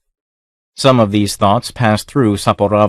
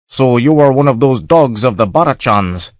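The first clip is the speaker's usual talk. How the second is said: sneering; 3 semitones higher than usual. A narrator's reading. Scowling captain sneers.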